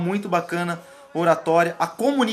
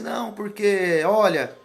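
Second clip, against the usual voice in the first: imitated pitiful pleading. Lawyer colleague explaining so you pity him, mock-pitiful. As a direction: play at a colleague explaining pitifully, words stretched. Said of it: "consegue sentir pena junto com o cara".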